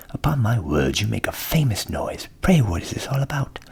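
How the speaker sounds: jolly donkey offering a plan; hearty donkey. A narrator's reading. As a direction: invite the cat along warmly. Ass questions the cock.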